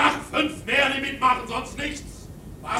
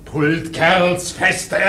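shouted urging; 10 semitones lower, 5 dB louder, slower than usual. Acted. Mate urges the crew.

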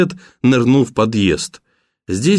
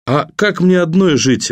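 higher-pitched, challenging question; acted woman's defiance, pitch up; defiant question; 6 semitones higher than usual. A narrator's reading. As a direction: fling the question back as a challenge. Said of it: "вызывающе спросила Вероника".

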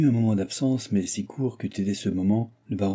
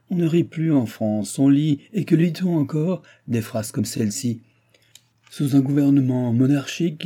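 put-on higher, emphatic old baron's tirade; ranting old baron; 4 semitones higher, 4 dB louder than usual. Baron railing to his guest about philosophers, scornful tirade. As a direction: rail against the philosophers with raised pitch.

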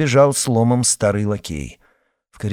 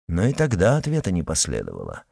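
ordinary delivery, nothing marked

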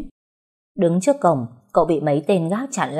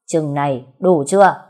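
louder, demanding; raised voice; 5 dB louder than usual. Acted. Young master slamming money down, loud and demanding. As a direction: slap it down loud and proud. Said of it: "lớn giọng".

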